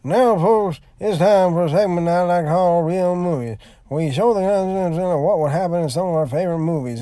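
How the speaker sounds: imitating Dave Chappelle. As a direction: play the showman introducing a bit. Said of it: "Dave goes on and he says".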